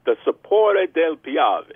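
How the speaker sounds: slow, showy Italian accent; attempted Italian accent. Shown as a demonstration. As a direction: say it in your best amateur Italian accent. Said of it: "Italian accent as best as I could".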